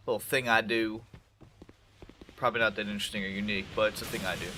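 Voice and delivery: blocked nose voice; congested, stuffy nose. Real, not acted. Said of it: "I sound a little congested".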